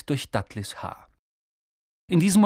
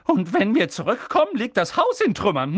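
higher, louder scolding; grumbling; 7 semitones higher, 5 dB louder than usual. A narrator's reading. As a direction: snarl it at Harry. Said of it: "raunzte sie".

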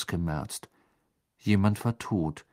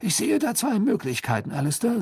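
higher, louder fussy official; high-pitched pompous minister; dismissive minister; 12 semitones higher, 4 dB louder than usual. A narrator's reading. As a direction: argue it away in a raised, insistent voice.

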